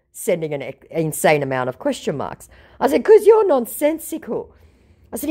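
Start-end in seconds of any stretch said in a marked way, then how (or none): 3.1-4.5 high, louder cutting reply; sharp retort. Retold or imitated. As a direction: cut him down in one line.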